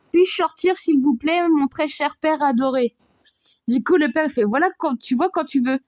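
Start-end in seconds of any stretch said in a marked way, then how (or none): 0.1-2.9 sucking up. Retold or imitated. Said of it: "il sort les violons".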